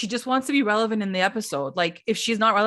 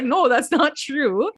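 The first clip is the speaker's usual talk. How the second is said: higher, slow drawn-out denial; mock protest; 5 semitones higher, 3 dB louder, much slower than usual. Host mimics Dolores in a stupid fight, drawn-out mock protest. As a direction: stretch out an imitated objection. Retold back-and-forth denial, laughing before it.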